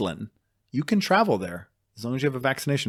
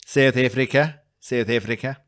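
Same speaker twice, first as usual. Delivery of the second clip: put-on South African accent; 2 semitones higher, 5 dB louder than usual. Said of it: "those are legit accents".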